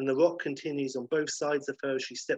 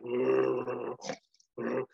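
sleepy sloth. Acted. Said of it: "he's like".

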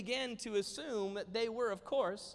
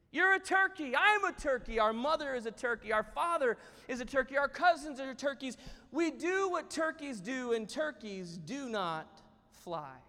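raised, emphatic list, dropping at the end; exasperated insistence; 5 semitones higher, 4 dB louder than usual. Acted. Jerome insists to his brother they are turkeys, exasperated. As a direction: drum each point into a foolish brother.

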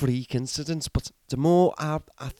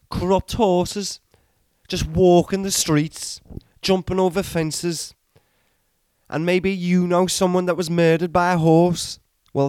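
a put-on accent drifting Welsh and Scottish; wandering Irish-ish accent; 2 semitones higher than usual. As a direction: play a ranting character in a shaky put-on accent. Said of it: "Your accent went very Welsh".

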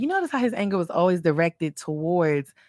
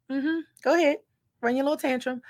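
higher, softer patronizing voice of God; amused God waiting out someone's anger, pitched up and hushed; dismissive God; 7 semitones higher, 6 dB quieter than usual. Retold or imitated. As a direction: let the child's tantrum blow over. Voicing God brushing off anger.

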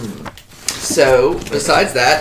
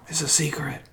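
mock-secretive, much softer aside; confiding hush; 11 dB quieter than usual. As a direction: drop your voice as if sharing a secret. Host confides a secret to listeners.

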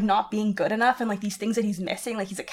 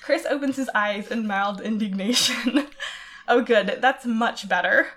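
story reading. Acted. Reads fanfic passage aloud.

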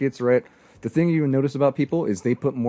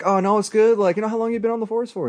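smooth-talking self; 9 semitones higher than usual. Retold or imitated. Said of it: "And I was just like".

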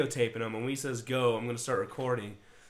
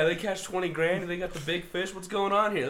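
excited onlookers; 5 semitones higher than usual. Acted. Acts out gawking neighboring fishermen.

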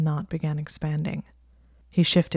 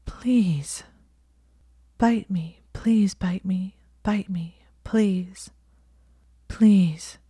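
breathless begging; 3 semitones higher, much slower than usual. Acted. Heroine begging her lover.

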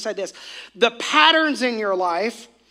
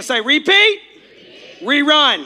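louder, with conviction; say it like you mean it; 3 semitones higher, 6 dB louder than usual. Shown as a demonstration. Preacher urging the crowd to say it like they mean it. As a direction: call it out with conviction. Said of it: "Say it like you mean it".

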